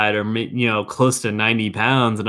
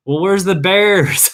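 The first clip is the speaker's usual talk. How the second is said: tourist lady; 8 semitones higher, 4 dB louder, slower than usual. Retold or imitated. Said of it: "she's just like".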